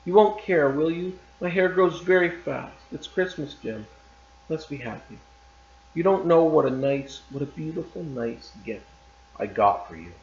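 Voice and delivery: lightly voiced young wife, pleading; Della pleading. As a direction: coax him gently, half anxious. Reads Della's pleading lines.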